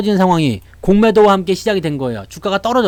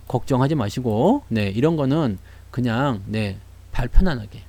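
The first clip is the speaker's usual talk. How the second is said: mock soothing; 6 semitones lower, 6 dB quieter than usual.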